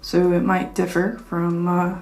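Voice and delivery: amplified through a small speaker; through a Bluetooth speaker. Real, not acted. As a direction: voice played back over a speaker. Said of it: "This is a sound test of how it sounds coming through the, uh, Bluetooth speaker".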